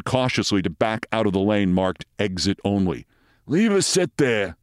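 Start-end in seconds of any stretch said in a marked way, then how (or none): 3.5-4.6 slow, high-pitched attendant voice; parking attendant. A narrator's reading. Attendant takes over from an inept driver, in character voice. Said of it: "said the attendant".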